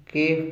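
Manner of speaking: कीफ with a short i after the k, not कैफ; correct reading. Shown as a demonstration. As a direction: say कीफ with kasra on the first letter. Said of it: "काफ पर आपने यहाँ पर कसरा पढ़नी है".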